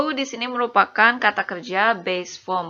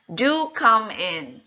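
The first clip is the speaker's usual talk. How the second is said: formal invitation; much slower than usual. Shown as a demonstration. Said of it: "agar terdengar lebih formal".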